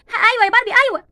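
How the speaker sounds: calling back. Acted. Answering from the window above.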